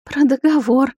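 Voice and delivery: высоко, плаксиво; шмыгнуть сквозь слёзы; шмыгая носом. A narrator's reading. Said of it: "шмыгнула низшая носом". (высокий плаксивый голос)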